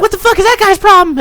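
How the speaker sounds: high-pitched mock female voice; put-on falsetto, affronted question; imitated woman. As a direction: squeal it like an indignant girl. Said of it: "and they're like".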